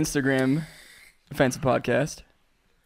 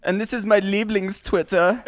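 mock-German host; German accent. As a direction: present it in a put-on German accent. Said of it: "You still gotta do the German".

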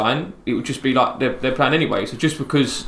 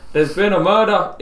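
higher, slow Scottish attempt; drawn-out mock Scottish, pitched up; Scottish accent; 6 semitones higher, 3 dB louder, slower than usual. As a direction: launch slowly into a badly faked Scottish accent. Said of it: "I'm from Scotland".

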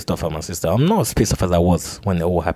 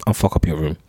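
retold threat. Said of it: "And, and I threatened her".

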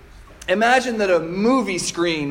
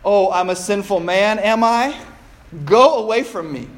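haughty mock retort. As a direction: toss it back proudly, offended. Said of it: "into something more like".

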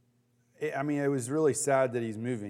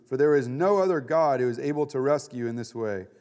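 scripture reading. A narrator's reading. Pastor reading Daniel to his Bible study, proclaiming the decree. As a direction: read the passage to the group, building to proclamation. Reads scripture aloud to group.

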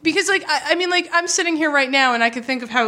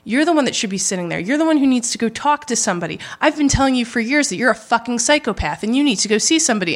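flat, emotionless insults. Retold or imitated. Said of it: "in the tone I'm saying it".

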